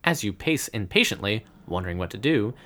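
steady adventure-book narration; story narration. A narrator's reading. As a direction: read it like a gamebook. Game master reads the adventure.

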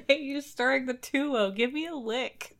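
husband begging wife for a lick of tuwo. Retold or imitated. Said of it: "he's like".

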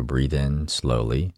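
slowed right down, drawn out; slow breathing cue. Shown as a demonstration. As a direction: stretch each word slowly. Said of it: "because I want you to slow it down".

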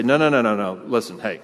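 casual, placating reassurance; a hint of a backpedaling Jesus; softened Jesus. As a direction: talk them down breezily, laughing it off. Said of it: "tone down the language a bit and say".

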